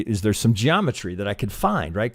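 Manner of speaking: ordinary talk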